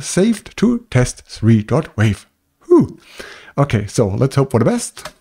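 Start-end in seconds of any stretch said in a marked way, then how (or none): 2.7-3.0 high breathy sigh of relief; relieved whew. Real, not acted. Relief after a long explanation.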